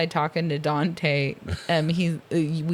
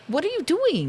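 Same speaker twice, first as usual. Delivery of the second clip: mock exasperation; 11 semitones higher than usual. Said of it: "mock asking the characters".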